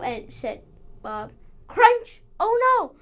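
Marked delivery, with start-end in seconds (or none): 1.7-3.0 panicked shouting. Acted. Robots still chasing them.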